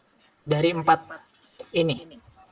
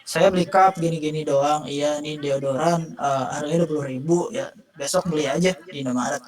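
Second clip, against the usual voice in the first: bored monotone, no sales technique; boring flat pitch. Shown as a demonstration. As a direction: say it like you don't care to sell. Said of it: "saya bilang kayak gini".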